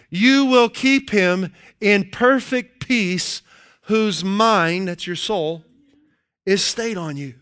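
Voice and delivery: slow, deliberate reading of a verse; slow scripture reading. Acted. Preacher reading scripture slowly to the church. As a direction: savour each word of the verse.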